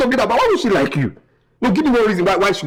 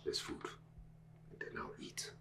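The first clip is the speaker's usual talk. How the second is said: softer and lower, moving away; fading off; 13 semitones lower, 21 dB quieter than usual. Acted. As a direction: trail off as if walking out. Son fading away offstage.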